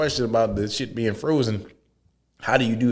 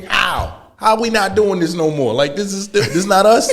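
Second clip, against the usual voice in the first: much higher, louder shouted impression; impersonating a rapper; 10 semitones higher, 6 dB louder than usual. Retelling a rapper storming into the Adidas meeting, shouted impression. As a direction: yell it like an indignant rapper in the meeting. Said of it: "he just came".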